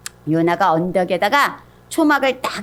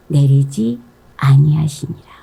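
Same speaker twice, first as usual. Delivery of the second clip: solemn verse reading; 8 semitones lower, 3 dB louder than usual. A narrator's reading. Reads the verse's end solemnly.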